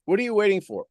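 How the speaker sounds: ordinary delivery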